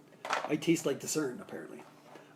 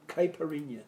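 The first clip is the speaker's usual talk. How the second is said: mock Southern accent; 3 dB quieter than usual. Shown as a demonstration. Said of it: "as they say in the South".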